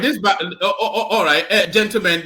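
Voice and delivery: laughing. Real, not acted. Host laughs breaking up argument.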